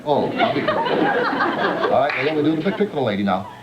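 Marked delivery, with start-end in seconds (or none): 0.0-1.9 falsetto reply. Acted. High mock reply as tamer.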